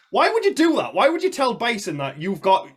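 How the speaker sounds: high-pitched exasperated question; baffled, pitch leaping up; incredulous. Real, not acted. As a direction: protest a film character's daft blunder. Mock protest at film character's blunder.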